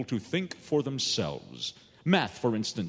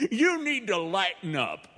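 laughing salesman; 2 semitones higher than usual. Acted. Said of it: "And the salesman laughed".

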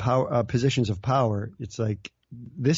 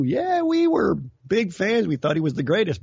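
mock enthusiasm; 5 semitones higher than usual. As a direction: drag it out with fake delight. Mocking Democrats' fake enthusiasm.

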